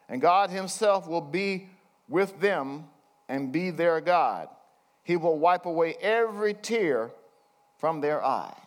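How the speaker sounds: slow scripture reading. Acted. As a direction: read it slowly, weighing each promise. Reads scripture aloud.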